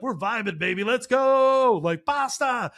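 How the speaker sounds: high, loud party hype; loud pumped-up cheering; hyped up. Retold or imitated. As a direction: pump yourself up, cocky. Hyped cook cheering himself on.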